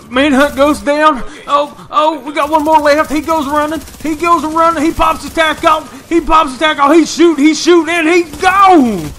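loud, high live commentary; breathless sportscaster call; excited play-by-play. Real, not acted. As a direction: call the action as it happens. Live calling of the firefight.

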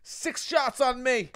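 loud bar-room shout; mock calling out. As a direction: holler a drinks order across the bar. Imitates guy calling out an order.

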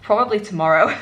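slipping into a light British accent; a hint of a British accent, half by accident; unintended, light British accent; accidental British accent. Real, not acted. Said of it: "is that meant to be a British accent".

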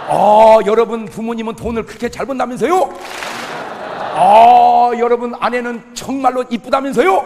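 full-force preaching. Acted. Pastor rousing the congregation, loud and ringing. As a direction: drive the lesson home to the crowd.

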